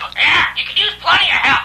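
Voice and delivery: very high, squawky, parrot-like bird chatter. A parrot mocks a man who says he could use help, squawking parrot voice. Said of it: "Shut up, you stupid bird".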